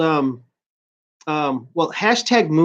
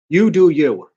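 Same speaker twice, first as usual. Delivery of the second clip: mock; 4 dB louder than usual. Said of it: "I wanna punch him".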